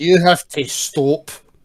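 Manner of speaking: put-on Scottish accent. Retelling how a man cut someone off, in a Scottish accent. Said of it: "In a Scottish accent".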